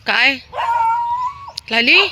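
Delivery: high, loud call of the dog's name; light up greeting Lali; greeting a pet. Real, not acted. Feeder greets her dog Lali, high loud pet call.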